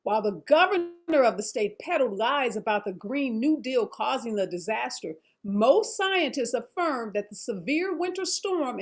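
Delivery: measured anchor teaser read; news read. Acted. Anchor reads scripted intro.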